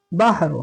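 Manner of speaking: बहर closed on the r, no final vowel; pausal ending. Shown as a demonstration. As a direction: stop on बहर, dropping the last vowel. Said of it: "यहाँ ठहरेंगे तो".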